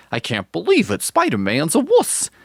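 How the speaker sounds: high, strained squeaky voice, climbing as it goes; shrill-pitched cartoon Daredevil; Daredevil impression. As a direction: squeal it out like a whiny hero. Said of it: "That's my Daredevil impression".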